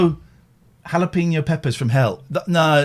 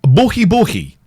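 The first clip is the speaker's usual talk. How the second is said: imitating pig grunt; 4 dB louder than usual. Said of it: "Did she just say buhi".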